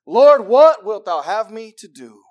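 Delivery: loud, high, slow appeal; emphatic plea. Acted. Preacher shows how to come to God, pleading. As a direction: call it out to God, drawn out.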